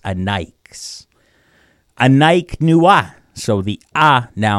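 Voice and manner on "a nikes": whispered "A Nikes". Shown as a demonstration. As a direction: breathe the word softly. Whispered repeat of word.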